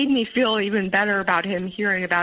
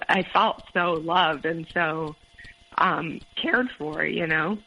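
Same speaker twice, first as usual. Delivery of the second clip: slow, a touch tearful; welling up, words coming slowly; getting teary; slower than usual. Real, not acted. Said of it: "Sorry, I'm getting teary already".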